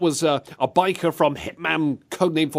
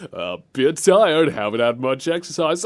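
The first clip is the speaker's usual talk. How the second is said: understated imitation of an unbothered leader; chill president. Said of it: "how chill this president sounded".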